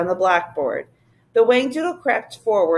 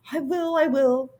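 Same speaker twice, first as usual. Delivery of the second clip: creature voice; 5 semitones higher than usual. Acted. Whangdoodle voice.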